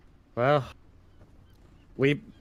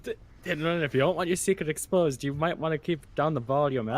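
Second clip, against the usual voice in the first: lightly squeaky character; 3 semitones higher than usual. Acted. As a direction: warn him gently in a small voice. Character warns, higher voice.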